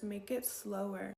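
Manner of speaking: slow, unhurried coaching; slow advice. Shown as a demonstration. Coaching viewers to slow down, said slowly. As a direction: model the slowness as you say it. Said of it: "advice to speak slower".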